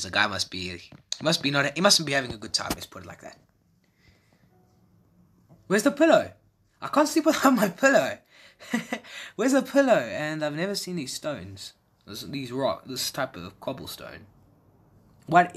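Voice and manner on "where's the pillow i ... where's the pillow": high, whiny put-on voice; squeaky whine. Gamer voicing a character missing a pillow, whiny. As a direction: whine like a sleepy child.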